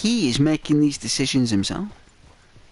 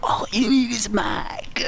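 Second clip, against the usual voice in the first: breathy hammed-up sob-whisper; fake-weep the plea to Dutch; whimpering, half-laughing mock tears; mock crying whisper; 9 semitones higher than usual. Mike's mock tearful plea.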